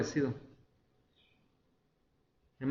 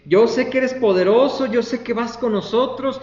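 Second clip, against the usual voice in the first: higher, insistent protest; acted pleading; 6 semitones higher, 4 dB louder than usual. Preacher plays Gedeón bargaining with the Señor, pleading. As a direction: plead your case while backing out.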